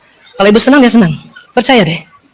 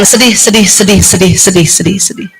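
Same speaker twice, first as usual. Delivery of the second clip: SEDIH repeated, sinking lower and fading; brain's sad message; 6 semitones lower than usual. Acted. Brain telling the body, "sedih" repeated and fading low. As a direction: chant "sedih" downward until it dies away. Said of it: "Dia bilang sama badan".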